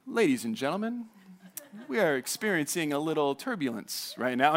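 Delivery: lightly voiced pilot easing the cabin; soothing pilot announcement. Imitating the pilot calming passengers, soothing and soft. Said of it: "that soothing voice".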